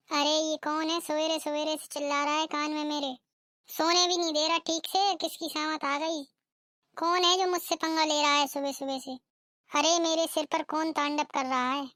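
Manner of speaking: lightly voiced cranky bride, freshly woken; a sleepy bride snapping back; rude young bride. (नींद से उठी बदतमीज़ बहू की आवाज़)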